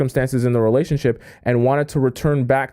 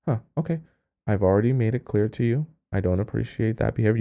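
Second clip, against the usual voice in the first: cool and composed; 3 semitones lower, 5 dB quieter than usual. Retold or imitated. Calm reply contrasting the begging.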